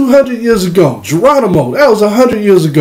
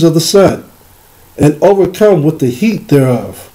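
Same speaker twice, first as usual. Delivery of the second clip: Esau's voice; 2 semitones lower than usual. Acted. Preacher voicing Esau for the congregation, a lightly voiced solemn reading. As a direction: let Esau speak through the scripture, lightly voiced. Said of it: "This is Esau's voice".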